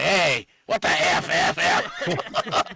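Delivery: high, drawn-out exclamation breaking into laughter; jokey high-pitched holler; mock outburst. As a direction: greet a brother with a playful censored curse. Imitates cussing when calling brother.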